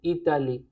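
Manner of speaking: इताली with a clear open "aa" and stress at the end; French pronunciation. Shown as a demonstration. Teacher modelling French Italie for students, careful pronunciation. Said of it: "इटली".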